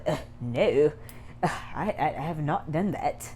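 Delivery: put-on hesitant, proper English-accent denial; mock English accent. Mimicking Ella's flustered denial in a light English accent. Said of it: "She doesn't have English accent".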